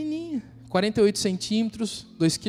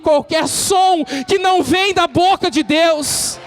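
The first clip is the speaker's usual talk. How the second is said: preaching at full force; 10 semitones higher, 6 dB louder than usual. Acted. Preacher rousing the congregation, full-force preaching. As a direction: lift the room, declaim every phrase.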